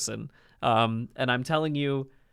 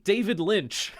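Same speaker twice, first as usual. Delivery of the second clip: David Lynch impression; 4 semitones higher, slower than usual. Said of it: "That's my David Lynch impression".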